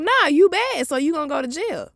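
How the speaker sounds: high taunting cop voice; mock cop taunt. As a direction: sneer it like the officer. Officer mocked.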